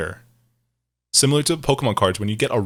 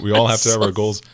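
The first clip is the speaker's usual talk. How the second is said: ordinary talk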